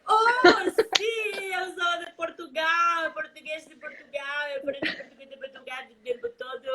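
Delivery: mock excited Portuguese. Answering a viewer's guess, a playful mock excited reply. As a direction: pretend to be thrilled to be Portuguese. Jokingly plays being from Portugal.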